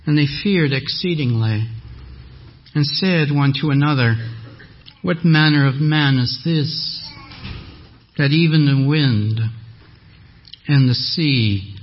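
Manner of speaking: solemn King James reading; scripture reading. Acted. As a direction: read the passage like Scripture. Reads Mark 4 aloud.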